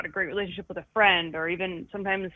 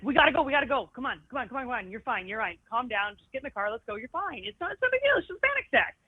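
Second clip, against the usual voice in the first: impatient pusher; 5 semitones higher, faster than usual. Retold or imitated. Imitating pushy people during panic.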